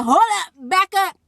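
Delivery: put-on teen stopping her friend mid-sentence; hold-up surprise. Learning the man is her father.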